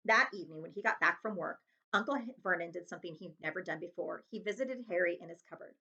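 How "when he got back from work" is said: ordinary delivery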